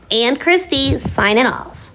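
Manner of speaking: high-pitched, held-out farewell; cheery sign-off. Real, not acted. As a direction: call farewell to the whole audience. Signing off to the viewers.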